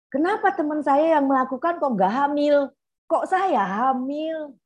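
high, slow indignant complaint; hammed-up angry teen protesting unfairness; angry girl. Psychologist imitates her angry pregnant client, high and slow. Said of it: "dia marah".

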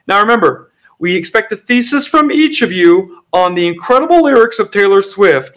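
lightly hammed-up lecturer; professor voice. Plays a professor assigning work on a pop singer's lyrics.

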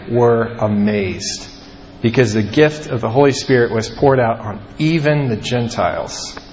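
measured, even reading of scripture. Acted. Pastor reading Acts to the congregation, steady scripture reading. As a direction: read the passage aloud to the congregation. Reads scripture passage aloud.

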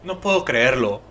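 whimpered disbelief; whimpering. Acted. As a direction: whimper it, close to tears.

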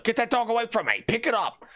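high-pitched alarmed outburst; mock panic. Mail carrier recoiling from a dog, hammed-up panic. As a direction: act out a dog-dodging panic.

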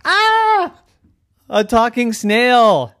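high shrieking fright, slowing down; startled scream. Acted. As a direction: scream then gasp it out slowly. Dinosaurs jump back scared.

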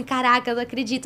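soft, quick retold disbelief; all cried out. Actress arriving to record after crying it all out, quiet quick disbelief. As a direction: say it under control, softly and quickly. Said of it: "já tinha chorado tudo".

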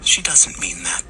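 smooth, creepy reassurance; falsely soothing; soft as butter. A narrator's reading. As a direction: excuse her in a silky voice. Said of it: "his voice like soft butter".

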